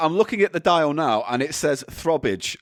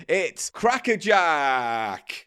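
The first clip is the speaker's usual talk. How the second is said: announcer; much slower than usual. Acted. Mock show announcement.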